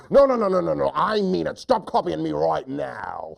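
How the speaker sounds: upset hunter. Acted. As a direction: burst out at the copycat. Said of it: "lion hunter gets so upset".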